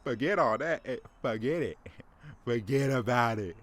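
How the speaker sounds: lightly voiced New Jersey wiseguy brushing it off; a hint of a gruff New Jersey mobster; mock New Jersey dismissal; New Jersey tough guy. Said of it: "an angry fat man from Jersey".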